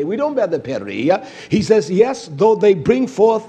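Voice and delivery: fiery preaching. Acted. Preacher thundering scripture to his flock, full force. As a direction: preach it out full-voiced, rising and falling.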